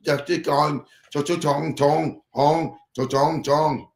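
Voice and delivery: mock Chinese gibberish. Pretending restaurant staff talk in Chinese, mock gibberish. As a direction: fake Chinese-sounding babble. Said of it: "you put it in Chinese".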